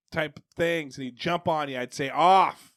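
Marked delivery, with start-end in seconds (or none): 2.1-2.7 firm, drawn-out Boston-free command to a dog; mildly raised, firm command; assertive dog command. Retold or imitated. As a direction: order the dog down. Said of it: "I was assertive with his name".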